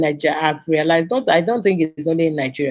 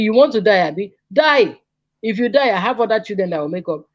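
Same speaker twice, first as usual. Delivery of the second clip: retold mother screaming; 4 semitones higher than usual. Mother screaming at her son after his suicide attempt, retold mock yell. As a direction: hurl it at him like a furious mother. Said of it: "the mother was still there screaming".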